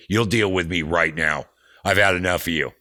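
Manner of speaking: firm, loud retold demand; fired up. Roadie retelling his run-in with a border cop, fired up. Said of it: "get all fired up".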